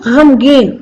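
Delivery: गमगीन as "ghamgeen", throaty first sound; guttural gh opening गमगीन; nukta pronunciation. Shown as a demonstration. Teacher correcting learners, गमगीन with throaty gh. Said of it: "गमगीन नहीं बोलना है".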